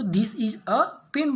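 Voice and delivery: "a" reduced to "uh", very slow; weak form a. Shown as a demonstration. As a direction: read it flatly with "a" as "uh". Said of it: "अ किया, ठीक है". ("a" को "अ" बोलें, बहुत धीमे)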